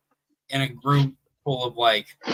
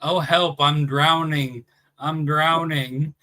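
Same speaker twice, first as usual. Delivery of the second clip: slow, mock-pleading cry for help; mock drowning cry; 2 semitones higher, slower than usual. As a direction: ham up a drowning swimmer. Mock drowning pupil in swim class.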